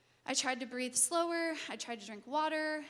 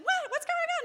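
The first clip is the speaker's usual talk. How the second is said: high, loud laughing panic; mock panic; 9 dB louder than usual. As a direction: play the frantic mom, laughing through it. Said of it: "she freaks out as much as me".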